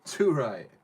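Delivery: loud, slow, laughing "too right"; laughing agreement. Retold or imitated. Agreeing loudly with the minerals demand, laughing. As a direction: cheer it on with a laugh. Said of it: "And I'm like".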